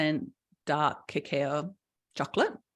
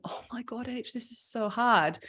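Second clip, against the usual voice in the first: overwhelmed woman; 4 semitones higher than usual. Retold or imitated. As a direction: sigh it out like a client who can't cope. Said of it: "this poor woman here, just going".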